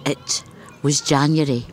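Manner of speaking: measured recitation, each line set apart by pauses; poem reading. Acted. Poet reading her bilingual poem to the interviewer, steady recitation. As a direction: read it like a poet giving her own verse.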